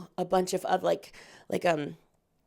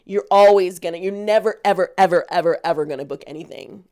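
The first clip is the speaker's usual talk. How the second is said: coach warning; 5 dB louder than usual. Retold or imitated. Coach warning a desperate actor, loudly stretching every ever. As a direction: lean hard on each ever. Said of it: "He's like".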